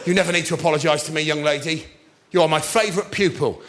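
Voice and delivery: fast, kindly stern teacher voice; fond teacherly reassurance. Retold or imitated. Drama teacher comforting his favourite pupil, warm and firm. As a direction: reassure her firmly but kindly. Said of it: "I said".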